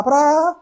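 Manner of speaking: high, drawn-out "praa"; vocal sound effect rising in pitch; imitated noise. Shown as a demonstration. Preacher sketching a scene at the bus stop, high imitated noise.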